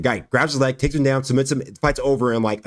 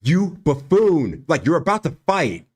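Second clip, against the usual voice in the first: exasperated; 3 semitones higher, slower than usual. Retold or imitated. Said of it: "I was like".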